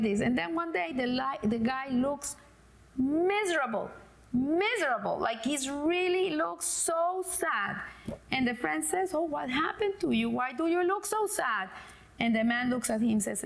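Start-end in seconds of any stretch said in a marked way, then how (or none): 3.0-7.8 "miserable" stretched out with a falling tune; emphatic, lingering storytelling. Shown as a demonstration. Storyteller stresses man's misery. 9.1-11.7 higher-pitched worried question; mildly alarmed sympathy; concerned surprise. Acted. Friend asks sad man in joke.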